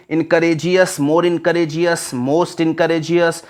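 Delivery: steady recited list of forms; reading through. Shown as a demonstration. Teacher reads the whole list to class, steady recitation. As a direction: reel off the word forms in an even rhythm. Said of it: "आपको पूरा पढ़ दे रहे हैं".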